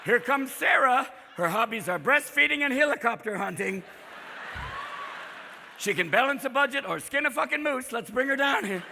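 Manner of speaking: lightly voiced host announcement; game show host. Host bringing Sarah onstage, light announcer voice. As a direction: introduce her like a reality show host.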